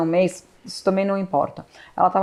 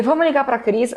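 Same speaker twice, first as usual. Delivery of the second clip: gentle, higher pitched comfort; reassuring; 5 semitones higher than usual. Retold or imitated. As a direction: soothe her.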